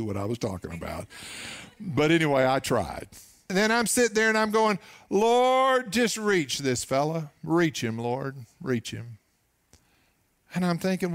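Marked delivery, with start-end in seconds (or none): 5.1-9.2 urgent plea fading to a hushed prayer; fervent prayer. Retold or imitated. Pastor praying silently for the young waiter, pleading then hushed.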